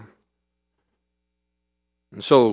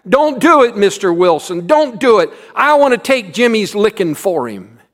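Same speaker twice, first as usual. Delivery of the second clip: urgent cry; 8 semitones higher, 8 dB louder than usual. A narrator's reading. Big Tom jumping up, stopping teacher.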